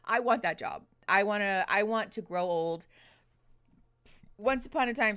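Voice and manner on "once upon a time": burp breaking into the words; storybook opening hit by a burp. Real, not acted. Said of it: "sorry, I keep burping into the mic".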